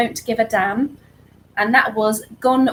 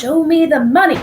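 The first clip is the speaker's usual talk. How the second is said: shouting the famous line through a laugh, higher and louder; laughing movie shout; 5 semitones higher, 7 dB louder than usual. Acted. Quiz host blurts the Jerry Maguire line, laughing shout. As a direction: yell it like the film hero, laughing.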